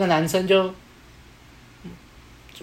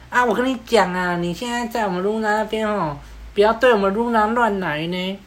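mock tough-guy warning, raised pitch; wannabe gangster; 5 semitones higher than usual. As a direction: imitate a punk warning off a rival. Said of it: "还想要学人家当加九".

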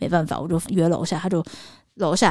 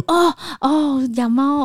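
high, eager fawning; mock eager; 8 semitones higher, 3 dB louder, much slower than usual. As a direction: gush to please the buyer. Fawning over buyer's cat.

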